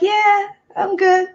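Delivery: high, slow, dazed reply; slow high stoned answer; insisting she's fine. Retold or imitated. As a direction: sound spaced out but sure.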